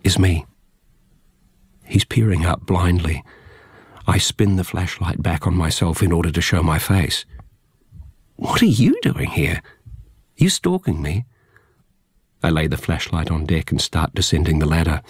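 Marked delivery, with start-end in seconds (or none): 0.0-0.5 gentle whisper. Acted. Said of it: "tenderly, gently". 8.4-11.2 suspicious man. Acted. Startled man in water.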